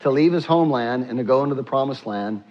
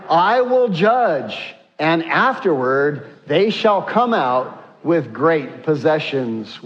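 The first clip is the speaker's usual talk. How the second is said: slow, deliberate group reading; unison scripture reading; slower than usual. Shown as a demonstration. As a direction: read each phrase together, unhurried. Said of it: "let's read together".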